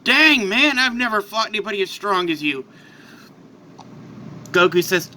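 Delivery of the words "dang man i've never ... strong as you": breathless admiration after a fight; impressed. Acted. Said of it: "He looks over at Goku and says".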